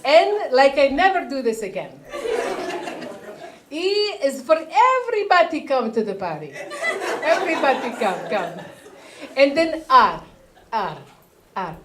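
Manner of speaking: mom shouting out letters; imitating mom spelling. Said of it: "The people are like, "Can you spell it?".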